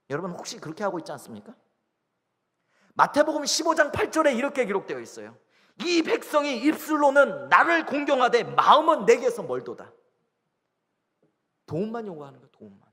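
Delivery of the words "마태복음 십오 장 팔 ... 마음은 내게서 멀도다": scripture proclaimed high and strong; forceful preaching. Acted. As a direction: declaim the verse from the pulpit. (성경 말씀을 높은 소리로 힘차게 선포하듯)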